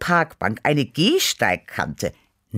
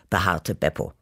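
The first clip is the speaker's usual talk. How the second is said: ordinary delivery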